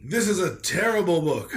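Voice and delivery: lightly voiced stuffy book critic; mild theatrical outrage in a put-on voice; put-on reviewer voice. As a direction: read it as a disgusted, pompous reviewer. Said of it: "I'll do an accent, but not one that you might expect".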